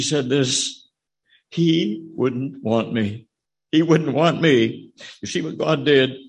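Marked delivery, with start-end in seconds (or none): 1.5-4.9 tearful. Retold or imitated. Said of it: "the tears coming down her face".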